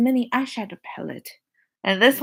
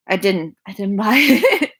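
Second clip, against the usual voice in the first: giggling through the words; sheepish laughing admission; laughing denial. Real, not acted. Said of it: "I did not purchase this".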